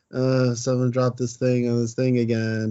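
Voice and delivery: slow, reluctant delivery of a cringey line; embarrassed line reading. Retold or imitated. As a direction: mimic a child actor embarrassed by the line. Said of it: "how embarrassing of a line that was".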